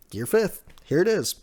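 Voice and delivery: the fan's own hype at the reveal; excited. Real, not acted.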